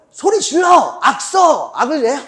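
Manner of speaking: loud, high barked commands; coach pushing kids. Retold or imitated. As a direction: yell orders like a relentless coach. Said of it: "아이들 막 다그치고". (다그치는 코치처럼 크게 고함치기)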